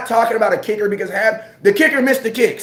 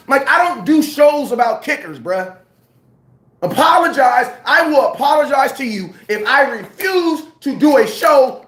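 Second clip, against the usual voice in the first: fired-up rant; 4 semitones higher than usual. Real, not acted. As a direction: let it boil over, fire him. Heated rant about the kicker.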